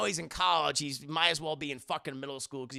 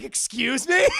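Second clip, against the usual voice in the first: high, loud excuse me; stunned disbelief; incredulous reaction; 9 semitones higher, 12 dB louder, slower than usual. Real, not acted. Streamer reacting in disbelief to the line. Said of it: "And it's like".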